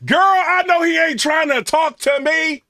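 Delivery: high, loud mocking put-down; sassy dismissive girl. Black girl turning down a broke suitor, high loud sassy sneer. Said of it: "they gonna be like".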